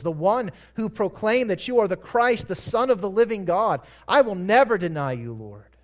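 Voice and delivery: building from a quick murmur to a loud proud declaration; brash, self-righteous vow. Retold or imitated. Peter boasting loyalty to Jesus, swelling brash vow. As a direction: play Peter boasting he'll never fail. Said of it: "What a brash, self-righteous statement".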